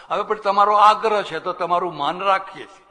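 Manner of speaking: mock gracious guest. Swami mocks the guest who stays for dinner, hammed-up. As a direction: ham up the freeloader's fake reluctance. Guest mocked accepting meal.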